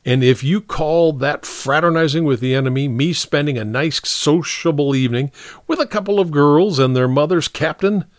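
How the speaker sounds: protesting soldier. Acted. Soldier explaining his evening out to the captain, protesting. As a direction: plead innocence to your captain. Story figure Gagliano pleads.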